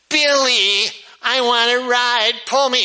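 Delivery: put-on high, demanding girl voice; bossy little sister. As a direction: order him to pull the wagon. Sister demands a wagon ride.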